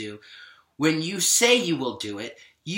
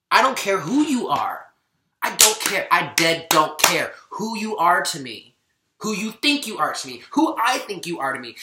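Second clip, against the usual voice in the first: louder, firm and indignant; fired up; 3 dB louder than usual. Real, not acted. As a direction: lay down the law, heated but controlled. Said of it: "I'm really getting fired up about this".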